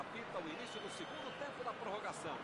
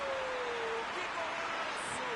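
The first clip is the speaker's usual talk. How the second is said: brazilian football narration; 10 semitones higher, 3 dB louder, much slower than usual. Real, not acted. Goal call in football broadcast.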